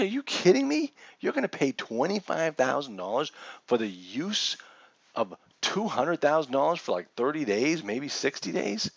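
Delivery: mock astonishment, opening high; retold disbelief. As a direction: replay your shock at the price. Retelling his disbelief at the price.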